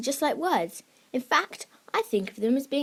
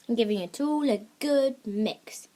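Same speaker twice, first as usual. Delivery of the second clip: whisper. Pretend. Secret magic potion recipe.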